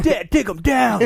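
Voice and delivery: high, slow cheering shout; mock kid shout. Imagined kid cheering Dad against Goofy, high mock shout. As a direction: cheer on like a small boy.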